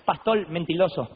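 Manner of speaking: light mock Korean accent, r softened to l, slow; slow mock Korean accent accusing the liar. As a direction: imitate the Korean pastor scolding in a light Korean accent. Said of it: "agarró el micrófono coreano y dice".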